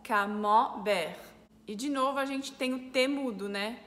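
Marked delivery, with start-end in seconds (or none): 0.0-1.2 camembert slowly, nasal "an" in the middle, silent T; French pronunciation, slowed. Shown as a demonstration. Teacher models the word after explaining E N, slow French camembert. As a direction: draw out camembert syllable by syllable the French way. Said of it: "mesmo som de A N juntos".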